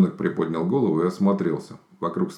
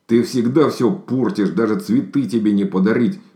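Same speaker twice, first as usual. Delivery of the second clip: angry; 4 semitones higher, 5 dB louder than usual. Acted. Bear fighting over flowers.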